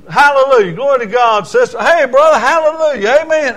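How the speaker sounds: hammed-up hallelujah greeter; imitating John. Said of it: "that's the way he talks everywhere he goes".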